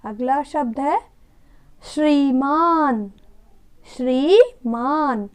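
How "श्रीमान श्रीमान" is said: श्रीमान drawn out as shree-maan; श्रीमान slowly with clear shr; slow model reading. Shown as a demonstration. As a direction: stretch श्रीमान for the class. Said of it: "बोलिए".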